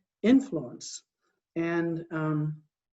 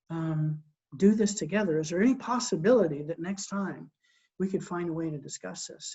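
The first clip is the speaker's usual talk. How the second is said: assertive calm. Retold or imitated. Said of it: "imagine if I went to my wife and I said".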